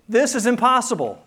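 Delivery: loud, high cry of disbelief; a mock-despairing protest; exasperated disciples. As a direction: throw up your hands, it can't be done.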